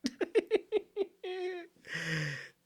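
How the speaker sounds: high shrieking laugh that cracks; burst of laughter. Real, not acted. Reacting to the verse ending, a high cracking laugh. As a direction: laugh out loud in disbelief.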